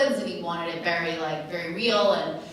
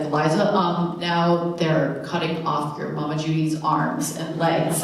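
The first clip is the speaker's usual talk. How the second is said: slow, a touch louder lumbering director voice; lightly imitating director's Frankenstein voice; 2 semitones lower, 4 dB louder than usual. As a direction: drag it out like a clumsy monster, only a hint. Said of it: "It's like Frankenstein".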